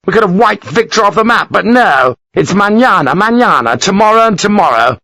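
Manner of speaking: furious rant. Acted. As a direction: rage at the lost chance. Lawford ranting.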